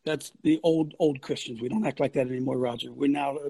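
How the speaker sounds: low, soft mock piety; meek Christian. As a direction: pose as a gentle born-again believer. Mocks meek born-again Christians.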